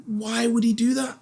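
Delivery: high, incredulous mock neighbour; baffled neighbour. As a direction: squeak it out in disbelief. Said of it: "And the guy's like".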